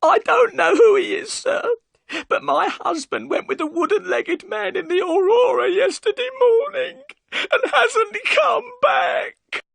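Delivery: crying out that he never came back; sobbing wife. Acted. Mrs Smith weeping over husband.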